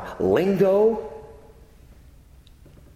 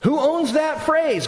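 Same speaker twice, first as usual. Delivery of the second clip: rhetorical question; 12 semitones higher, slower than usual. Real, not acted. Preacher asks congregation.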